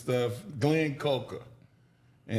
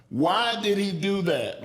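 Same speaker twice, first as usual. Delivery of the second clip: higher and slow, a mock yell; retold coach yell; 7 semitones higher, 4 dB louder than usual. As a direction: bark it out like a yelling old-school trainer. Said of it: "he used to yell at me".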